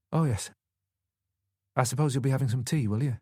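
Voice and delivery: weary Yorkshire widow, unenthusiastic; flat, grudging Yorkshire voice; Yorkshire accent. A narrator's reading. Grieving widow offering tea, in a Yorkshire accent. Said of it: "She had a solid Yorkshire accent".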